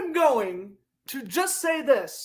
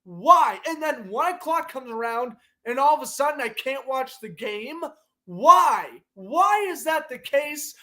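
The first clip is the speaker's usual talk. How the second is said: frustrated rant. Real, not acted. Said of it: "I'm just so enraged".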